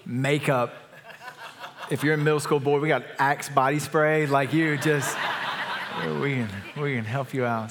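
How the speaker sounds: amused pastor laughing while listing toiletries. Real, not acted. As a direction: laugh along at your own joke. Pastor joking about Axe body spray.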